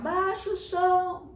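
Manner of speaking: high, loud, slow drawn-out yell; mother yelling at her son to turn it down; mom yelling. Acted. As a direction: call up to him over the music. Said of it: "A mamãe dele começou a gritar".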